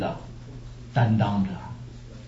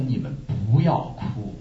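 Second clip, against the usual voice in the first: Jesus warning the women; 4 semitones higher than usual. Acted. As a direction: speak as Jesus, earnest and pleading. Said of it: "耶稣回过头来看，说".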